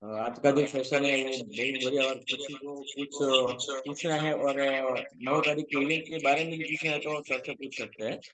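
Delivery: echoey double audio. Real, not acted. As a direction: voice echoing on the call. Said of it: "आपकी voice में ego आ रहा है, ईको".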